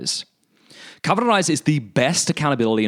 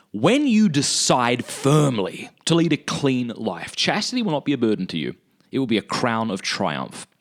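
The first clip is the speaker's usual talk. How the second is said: measured, declaimed reading; quotation read aloud. Acted. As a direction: read it out like a weighty maxim. Reads out a quotation.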